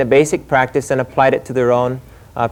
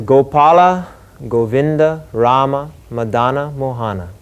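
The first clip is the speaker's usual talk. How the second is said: staccato. Shown as a demonstration. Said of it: "I'll show you how to chant this mantra".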